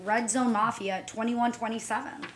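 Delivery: radio voice. Shown as a demonstration. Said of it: "The Jimmy voice".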